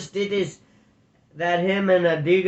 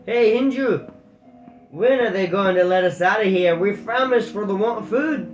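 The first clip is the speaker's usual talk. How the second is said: loud, higher Border call; 5 semitones higher, 6 dB louder than usual. Acted. Prisoner calling the guard for food, loud call. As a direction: holler through the cell door.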